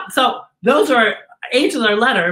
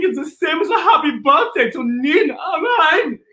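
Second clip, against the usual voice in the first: Heimlich voice; 4 semitones higher than usual. Acted. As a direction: play the happy German caterpillar. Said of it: "Heimlich goes".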